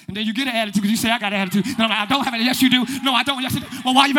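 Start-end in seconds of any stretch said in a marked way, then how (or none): 1.1-4.1 louder, quick-fire bickering; escalating mock squabble. Couple arguing over who has an attitude, loud mock bickering. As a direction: toss denials back and forth, heating up.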